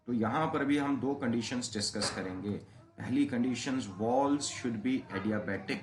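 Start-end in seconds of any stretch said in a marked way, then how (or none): 3.9-5.8 slow, spaced dictation for notes; dictating a condition word by word. Shown as a demonstration. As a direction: spell it out slowly for students to write. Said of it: "dictating a key condition".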